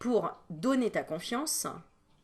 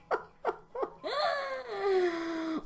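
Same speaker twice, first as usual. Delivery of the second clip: real laugh; 12 semitones higher than usual. Real, not acted.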